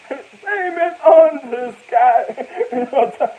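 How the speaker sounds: loud laugh through slow drawn-out words; laughing loudly. Real, not acted. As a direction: crack up while stretching it out.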